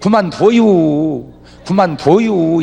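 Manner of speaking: easygoing Chungcheong way of saying stop; slow Chungcheong drawl. Retold or imitated. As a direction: let "그만둬요" drag lazily, falling at the end. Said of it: "우리는 그래요".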